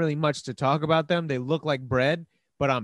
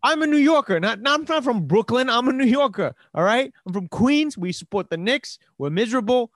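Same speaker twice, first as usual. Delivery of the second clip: higher and louder, fired-up protest; heated defensive rant; 9 semitones higher, 6 dB louder than usual. Real, not acted. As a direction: defend your borough loudly and proudly. Defends his New York identity.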